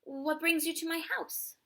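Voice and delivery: high, bright-eyed question; exclaimed. Acted. Amu greeting a surprise visitor, exclaiming high. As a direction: exclaim it in delight. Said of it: "Amu exclaimed".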